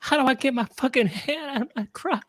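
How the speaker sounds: high-pitched mock-desperate voice; hammed-up pleading, building to a wail; pleading stuck man. Man stuck mid-routine hoping Tito hears, mock pleading.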